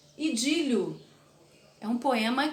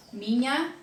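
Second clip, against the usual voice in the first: each word spaced out, slow; slow verse reading; much slower than usual. Shown as a demonstration. Teacher reading a poem line to students, slow and spaced. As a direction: read the verse slowly for scansion. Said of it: "eu vou dar o exemplo aqui".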